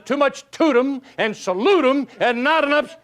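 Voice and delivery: high, slow punchline voice; hammed-up chief, drawn out; Indian chief. Chief delivering the punchline, high and slow. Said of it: "He says".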